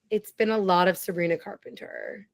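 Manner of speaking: hushed confession; sheepish little admission; whisper. Real, not acted. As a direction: whisper it like a secret. Confessing guilty pleasure.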